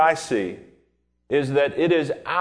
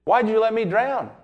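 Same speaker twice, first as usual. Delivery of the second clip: upset man in heaven; 5 semitones higher than usual. Retold or imitated. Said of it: "he's really upset. And he says to God".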